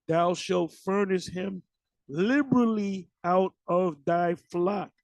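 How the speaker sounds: slow, measured Bible recitation; scripture reading. Acted. Preacher reads the law on freeing servants, slow scripture reading. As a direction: read out the verse slowly and deliberately.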